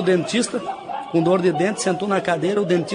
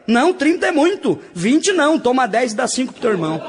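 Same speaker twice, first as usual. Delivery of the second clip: stingy shout; 5 semitones higher than usual. Acted. Rich stingy father shouting at his son over money. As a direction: bark the numbers down fast. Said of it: "E ele já gritou pro filho".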